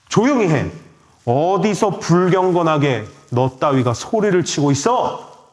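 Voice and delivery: mildly indignant mock rebuke; acted scolding. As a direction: scold lightly, as if putting someone in their place. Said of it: "이게 꾸짖다라는 거예요". (가볍게 꾸짖는 흉내)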